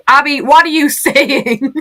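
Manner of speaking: loud, slow laughing outburst; laughing exasperation. Real, not acted. Exasperated at question.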